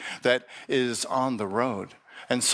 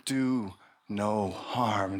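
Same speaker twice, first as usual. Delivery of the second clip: solemn slow; 4 semitones lower, 3 dB quieter, much slower than usual. Acted. Monk repeats the mantra.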